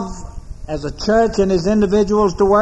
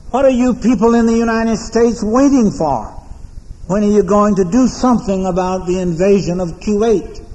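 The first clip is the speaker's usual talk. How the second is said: retelling a tense, pitched-up demand; rising tension; 3 semitones higher than usual. Retold or imitated. London cab driver pressing an American visitor, tense. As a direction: mildly imitate a driver's growing urgency. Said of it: "rising tension in his voice".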